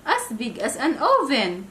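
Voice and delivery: put-on girl terrified by the wolf's mouth; trembling shriek. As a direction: shriek it out in fear. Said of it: "Trembling, Little Red Riding Hood shrieked".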